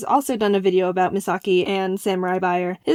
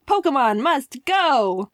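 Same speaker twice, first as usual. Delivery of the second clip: slow slogan read; 3 semitones higher, slower than usual. Retold or imitated. Reading Misaki's slogan.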